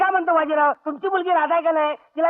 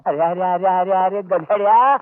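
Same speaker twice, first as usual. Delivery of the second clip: angry scolding; 7 semitones lower than usual. Acted. Father scolds son.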